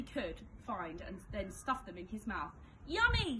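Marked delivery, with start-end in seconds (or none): 2.9-3.4 high, louder delighted scream. A narrator's reading. Graham eating sweets, high delighted scream. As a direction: squeal it with glee. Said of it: "screamed Graham".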